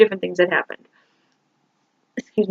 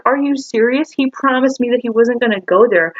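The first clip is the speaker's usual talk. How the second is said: higher-pitched retold protest; indignant disbelief; 5 semitones higher than usual. Retold argument with dad over boyfriend.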